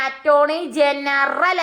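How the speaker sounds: slow "attorney ജനറൽ" with weight on the final "റൽ"; stressed R ending. Shown as a demonstration. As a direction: draw out "ജനറൽ" to bring out its "റ" sound. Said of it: "അപ്പൊ ആറിൽ അവസാനിക്കുക". ("ജനറൽ" അവസാനത്തെ "റൽ" ഊന്നി നീട്ടിപ്പറയുക)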